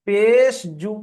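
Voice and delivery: পেশ জু with জু cut short; no stretch on জু. Shown as a demonstration. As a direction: spell it out, ending on a brief, unlengthened জু. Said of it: "পেশ লাগিয়ে উচ্চারণ করার সময় আর টান দিলাম না".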